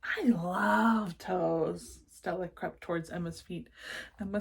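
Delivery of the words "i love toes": put-on slow delighted child. Little sister delighted.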